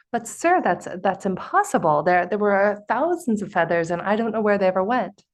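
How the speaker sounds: half-acted protest of disbelief; incredulous. Man protests to the sage he cannot gather the feathers, mildly incredulous. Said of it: "looks at him incredulously".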